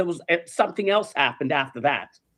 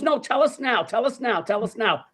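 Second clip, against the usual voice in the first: imitated pestering; 4 semitones higher than usual. Family begs for the story.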